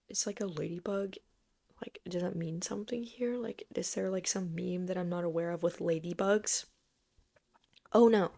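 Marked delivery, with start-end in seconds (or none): 0.1-6.6 baffled, hushed inner voice; confused whisper. Retold or imitated. Puzzled by class laughter, whispered thoughts. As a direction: whisper your confusion to yourself.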